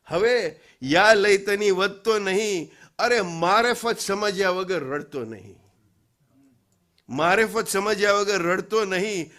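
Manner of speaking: emphatic rhythmic verse, settling at the close; poem recitation. Acted. Preacher delivers poet's final challenge, poem recitation. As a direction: declaim it as a closing admonition.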